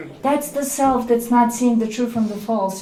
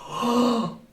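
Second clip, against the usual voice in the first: high, loud panicked exclamation; hammed-up horror, much louder; mock alarm; 8 semitones higher, 10 dB louder, slower than usual. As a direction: cry out in exaggerated dread. Acts out alarm one should feel.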